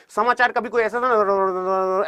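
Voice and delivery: slow, formal newsreader cadence; old newsreader. Shown as a demonstration. Teacher imitating an old-style news announcer, slow and formal. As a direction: read like an old radio announcer. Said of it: "जैसे पहले समाचार सुनाया जाता था".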